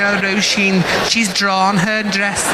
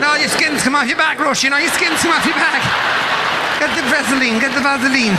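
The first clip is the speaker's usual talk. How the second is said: high-pitched, alarmed fussing; hammed-up parental alarm; mock panic; 6 semitones higher, faster than usual. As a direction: fret urgently in a high voice.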